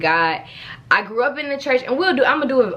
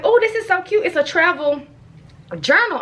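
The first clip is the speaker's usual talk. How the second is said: delighted gush; 8 semitones higher than usual. Retold or imitated. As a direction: squeal over something cute. Mom spotting the travel journal.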